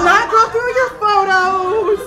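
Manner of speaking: loud, drawn-out promise to the crowd; mock outcry. Host promising the audience privacy, mock outcry. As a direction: call it out slowly, playing it up. Reassuring audience about borrowed phone.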